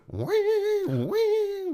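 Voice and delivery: high squealing wee sound; imitating synth squeal. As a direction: squeal it like the record. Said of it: "is that the sound of a crazy horse".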